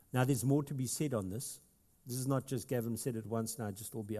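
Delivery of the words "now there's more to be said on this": hushed aside to the room; confiding whisper. Real, not acted. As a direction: drop to a breathy whisper. Aside to congregation, unvoiced.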